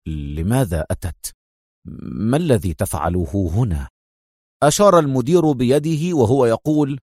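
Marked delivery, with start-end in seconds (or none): 0.1-3.9 tense. Acted. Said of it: "قائلا في توتر".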